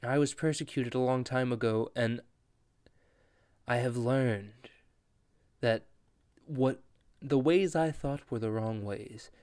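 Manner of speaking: solemn villain. Retold or imitated. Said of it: "he reveals the truth".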